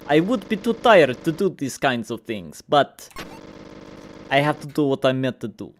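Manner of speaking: a hint of a cold villain, taunting; lightly voiced menacing villain Rev.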